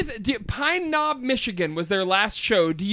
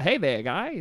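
put-on light Maine accent greeting; 4 semitones lower than usual. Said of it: "that's a Mainer accent".

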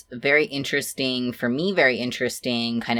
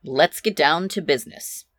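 businessman voice; 4 semitones higher than usual. Acted. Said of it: "Could you sound any more businessman than that?".

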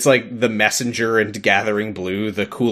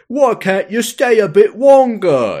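high, loud, slow wheedling barkeep; tavern owner; 9 semitones higher, 5 dB louder, slower than usual. Acted. Tavern owner coaxing barmaid to stay longer, put-on pleading voice. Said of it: "And he's like".

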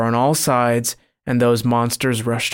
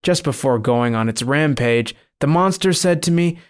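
ordinary delivery

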